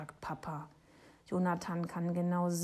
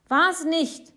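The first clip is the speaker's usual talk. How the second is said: high, loud denial; shouting; 10 semitones higher, 11 dB louder than usual. A narrator's reading. Boy denying he made it up, shouting high. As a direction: yell the denial. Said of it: "schreit Jonathan".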